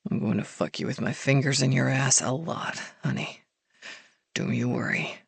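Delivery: soft and low, intimate; low murmur. A narrator's reading. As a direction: murmur close to her.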